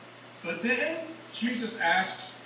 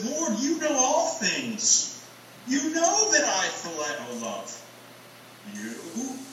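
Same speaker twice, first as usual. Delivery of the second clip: pleading appeal; 3 semitones higher, slower than usual. Retold or imitated. Preacher voicing Peter's grieved plea to Jesus, slow and pleading. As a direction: plead gently, letting the last word fall away. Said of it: "you can hear the appeal in his voice".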